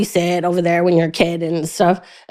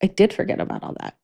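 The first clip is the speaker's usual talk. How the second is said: hushed admission; 7 dB quieter, faster than usual. Retold or imitated. Quiet admission.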